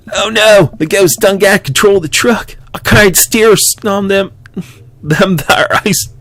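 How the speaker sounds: high, loud hammed-up redneck trucker voice; campy redneck drawl with a panicked edge; redneck accent. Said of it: "do a redneck accent".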